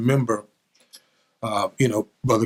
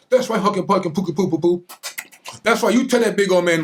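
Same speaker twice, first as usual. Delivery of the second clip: put-on higher, gushing baby talk; doting weeping mother; 5 semitones higher than usual. Weeping mother praising her son, cooing baby talk. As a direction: coo over the boy like a proud mama. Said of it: "pinching my big fat cheek".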